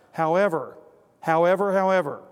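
loud, rising insistence; building preacher's emphasis; emphatic caveat. Real, not acted. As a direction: hammer each repeat harder.

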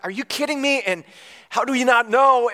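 incredulous. Retold or imitated. Husband confronting wife over charges.

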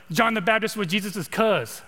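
casual Californian way of talking; California accent. Shown as a demonstration. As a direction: say it like a laid-back Californian, in contrast to Texan. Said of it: "I'm from California".

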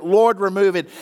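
the third, most desperate ask; pleading cry. Retold or imitated. Paul's repeated plea.

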